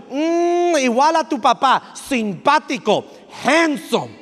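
proud, loving praise of dad; warmly praising the father to the child; sincere praise. Shown as a demonstration. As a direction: say it with real admiration. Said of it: "You better follow up with".

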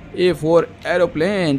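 A for एरोप्लेन drawn out very slowly; slow teaching. Shown as a demonstration. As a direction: spell it out slowly for small children. (बच्चों को सिखाते हुए बहुत धीरे)

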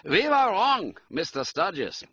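high, urgent German count; emphatic German-accented appeal. A narrator's reading. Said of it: "He spoke with a German accent".

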